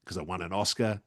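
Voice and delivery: understated antipodean movie-star voice; Russell Crowe. Acted. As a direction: lightly impersonate a matter-of-fact film star. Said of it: "bit of Russell Crowe".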